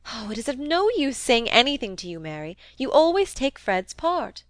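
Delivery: lightly voiced complaining young lady; exasperated Rosamond.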